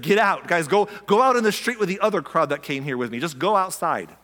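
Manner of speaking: lightly acted brisk command; Jesus ordering people out. Jesus clears the wailers from the house, mild command.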